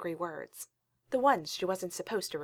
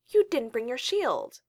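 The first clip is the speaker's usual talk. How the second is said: put-on louder, higher, slow accusing child; accusatory; 5 semitones higher, 5 dB louder, slower than usual. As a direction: call him out for forgetting it. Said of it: "she said accusatorily".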